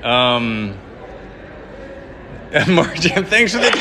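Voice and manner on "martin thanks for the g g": high, loud, excited thank-you. Real, not acted. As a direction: beam the thanks out to Martin. Excited thanks on live stream.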